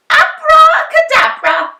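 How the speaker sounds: loud, high magic shout; shouted spell. A narrator's reading. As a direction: cast it again boldly. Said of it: "and shouted".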